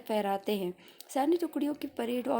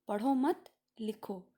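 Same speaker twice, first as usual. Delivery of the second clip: slowly, "पढ़ो मत" as one phrase, then "लिखो"; pause after मत; slower than usual. Shown as a demonstration. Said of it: "इसको कैसे पढ़ा जाएगा". ("पढ़ो मत" के बाद ठहराव, फिर "लिखो")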